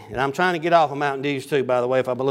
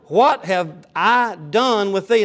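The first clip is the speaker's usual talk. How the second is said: upset widow; 3 semitones higher, slower than usual. Acted. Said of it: "In other words, she got upset".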